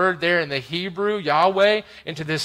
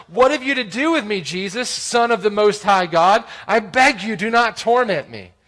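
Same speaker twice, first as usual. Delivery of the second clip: demon crying out loud; 3 semitones higher, 4 dB louder than usual. Acted. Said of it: "said with a loud voice".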